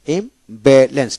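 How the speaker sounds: ইমব্যালেন্স as im, ba, lens; three distinct beats in ইমব্যালেন্স; split into syllables. Shown as a demonstration. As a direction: separate each syllable of ইমব্যালেন্স. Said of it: "তিনটে syllable".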